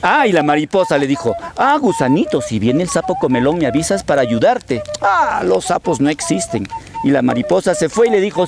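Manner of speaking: swooping, animated fable telling; storytelling to children. Acted. Storyteller acts butterfly advising the little worm, lively and lilting. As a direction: play out the dialogue with wide intonation.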